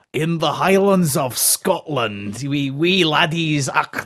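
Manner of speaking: slow, clumsy attempt at a Scottish accent; hammed-up Scottish accent, badly faked. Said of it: "Do you want to hear my Scottish accent?".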